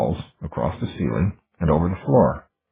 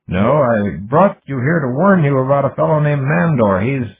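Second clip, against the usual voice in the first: lightly voiced earnest AI, a bit higher and louder; an eager young machine mind warning its maker; Ghost's voice; 8 semitones higher, 6 dB louder than usual. Ghost warning his creator about Mandor, eager lightly raised voice.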